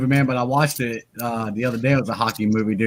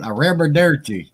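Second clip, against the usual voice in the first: put-on slow country-boy Italian; badly faked Italian accent; hick trying Italian. Showing off his Italian, badly faked accent. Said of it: "hear me try to speak Italian".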